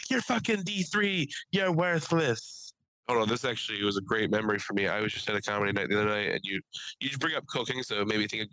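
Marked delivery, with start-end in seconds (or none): 0.1-2.7 screaming coach. Pretend. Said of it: "I'd be screaming in your ear all day".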